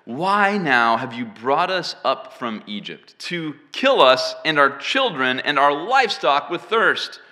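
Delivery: loud, drawn-out protest read aloud; grumbling complaint. Acted. Thirsty Israelites accuse Moses of killing them, grumbling. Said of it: "they grumbled against Moses".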